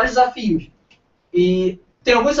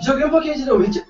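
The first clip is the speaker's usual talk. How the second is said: hiccup jolts the voice upward; words broken by a hiccup; 6 semitones higher than usual. Real, not acted. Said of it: "Tá com soluço".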